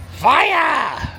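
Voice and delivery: shouted command. Pretend. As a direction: yell Fire like a gunner. By the cannons, playful command.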